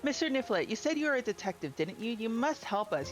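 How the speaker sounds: a hint of an anxious villager pleading with the detective; character voice. Reads NPC dialogue aloud.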